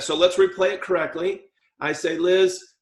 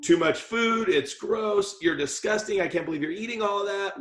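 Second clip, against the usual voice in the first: mock disgust; 3 semitones higher than usual. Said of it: "she has a different tone".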